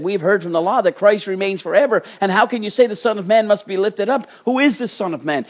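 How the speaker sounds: high, loud acted objection; preacher voicing a puzzled crowd; challenging crowd. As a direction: throw the questions out as a challenge. Acts the crowd challenging Jesus.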